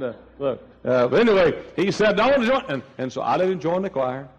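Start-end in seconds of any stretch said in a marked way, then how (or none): 2.2-2.6 high, slurred, strained speech; Urban Bell. Retold or imitated. Afflicted man asking to join, high labored imitated speech. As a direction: push the words out with difficulty, imitating impairment. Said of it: "he just couldn't talk right".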